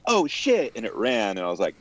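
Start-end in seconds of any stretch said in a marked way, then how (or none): 0.0-0.7 squeaky high mock cockroach panic. Cockroach caught under the guitar case, squeaky panicked voice. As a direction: voice the startled bug, up high. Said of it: "it was like".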